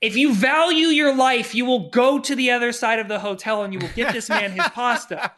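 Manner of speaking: loud, laughing mock threat; threatening the waitress on Suge's behalf, loud and laughing. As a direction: put the fear of God in her, half joking.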